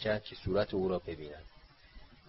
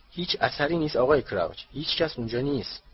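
calling after him; 4 semitones higher than usual. Acted. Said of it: "پشت سر او بلند گفت".

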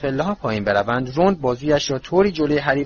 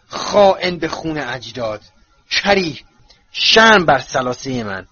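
slow spiteful hag; 3 dB louder than usual. Acted. Portrait curses the man.

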